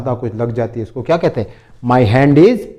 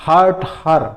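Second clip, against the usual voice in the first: slow model phrase; 5 semitones higher, 4 dB louder, much slower than usual. Shown as a demonstration. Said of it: "English में क्या कहते हैं".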